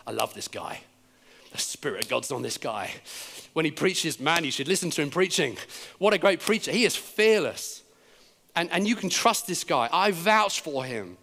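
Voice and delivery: imitated proud endorsement, gaining energy; boasting about someone. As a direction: vouch for him with growing conviction. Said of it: "he starts to boast about him".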